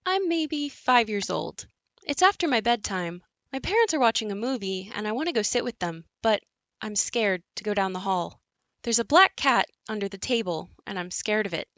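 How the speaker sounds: hint of a small child creeping through the dark; little girl. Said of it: "The narrator enters as a little girl".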